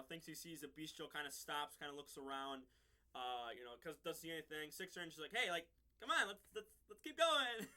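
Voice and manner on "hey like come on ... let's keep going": higher, louder, eager nudge to move on; eager urging. Retold or imitated. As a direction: hurry them along, half laughing. Six Ranger urging, retold scene.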